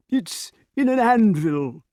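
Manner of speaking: high, slow, insistent voice; King Pellinore. A narrator's reading. Pellinore corrects his account, high character voice. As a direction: explain it high and laboured.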